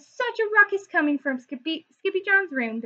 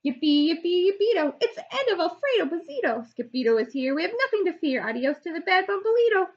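high, quick rhyming chant; rhyming cheer; 5 semitones higher, faster than usual. Acted. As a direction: cheer it out in rhyme. Dogs cheer in rhyme.

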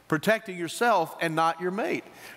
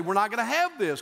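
raised-pitch, firm refusal; righteous anger; 5 semitones higher than usual. Acted. Voter calling up senators, righteously angry. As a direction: take an indignant stand. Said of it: "righteously angry and say".

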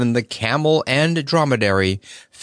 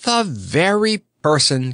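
delighted cry; 6 semitones higher than usual. A narrator's reading. Scarecrow agreeing to crown Toko, delighted. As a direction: exclaim with delight. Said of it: "cried the Scarecrow".

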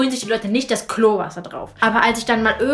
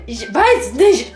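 put-on childish shrug; 5 dB louder, much slower than usual. Child voiced in retold story.

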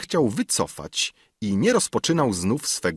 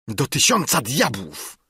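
exclaiming councillor; 6 semitones higher than usual. Acted. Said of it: "Zawołał radca".

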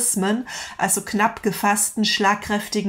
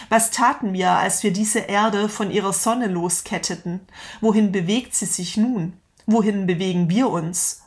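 dramatic reading. Acted. Reads Nietzsche's parable aloud.

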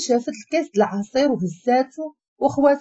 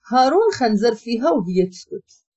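ordinary delivery, nothing marked

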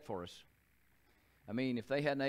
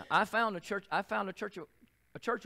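higher and louder, bursting with joy; excited; 8 semitones higher, 5 dB louder than usual. Retold or imitated. A Marine eager to go to church, calling out excitedly. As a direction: relive the thrill of the discovery. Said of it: "I was excited".

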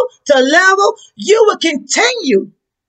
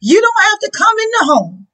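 pleading centurion. Acted. Centurion pleading his unworthiness to Jesus.

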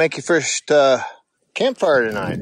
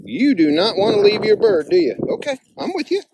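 higher, sing-song praise for the dog; dog talk; 5 semitones higher than usual. Real, not acted. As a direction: coax the dog like a pet. Praising hunting dog carrying goose.

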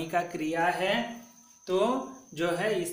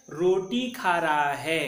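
slow model reading; 3 dB louder than usual. Shown as a demonstration. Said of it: "तो इसका उच्चारण कैसा करना है?".

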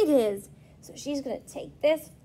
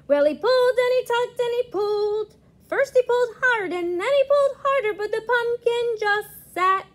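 effortful, rising storytelling; 8 semitones higher, 3 dB louder, faster than usual. A narrator's reading. Strenuous pulling narrated.

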